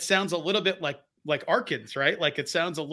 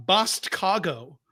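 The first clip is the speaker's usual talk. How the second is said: drawn-out coinage; 2 semitones higher, much slower than usual. Shown as a demonstration. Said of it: "is the accent".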